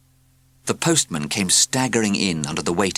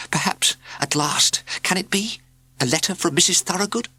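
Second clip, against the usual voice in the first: hopeful whisper; 12 semitones higher than usual. A narrator's reading.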